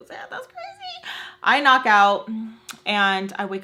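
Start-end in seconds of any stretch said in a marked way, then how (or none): 0.1-1.1 laughing. Retold or imitated. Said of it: "we finally have a little good laugh".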